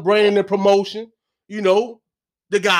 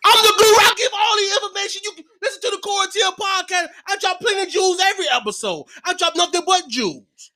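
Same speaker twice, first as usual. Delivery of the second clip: guru voice; 7 semitones higher than usual. Acted. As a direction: preach it like a self-styled guru. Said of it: "that voice you just gave".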